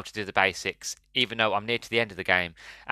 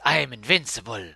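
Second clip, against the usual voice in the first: lightly voiced hacker, barely raised; a hint of the gloating hacker, toned down; megalomaniac rant; 2 semitones higher than usual. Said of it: "He just goes".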